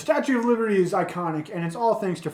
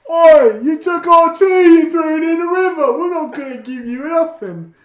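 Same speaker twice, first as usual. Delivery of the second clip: loud, high mock British rant; British accent; 10 semitones higher, 12 dB louder than usual. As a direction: bellow it like an indignant Brit. England voiced in a quiz joke.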